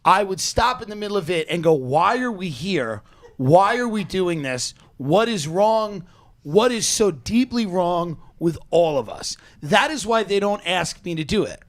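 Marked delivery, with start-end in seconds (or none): 1.7-9.3 slow, drawn-out existential despair, played for laughs; mock-anguished plea, dragged out; exasperated questioning. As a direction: space out each question, incredulous and weighty. Imagined on-set protest outburst.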